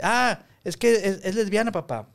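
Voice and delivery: imitated young daughter. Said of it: "mi hija de repente me sale con cosas".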